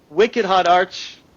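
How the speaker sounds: put-on slow, relished echo of the Boston accent. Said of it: "in your best Boston accent".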